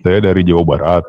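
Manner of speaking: robotic voice filter; toy robot voice. Real, not acted. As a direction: speak through a robot effect. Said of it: "suara robot ini".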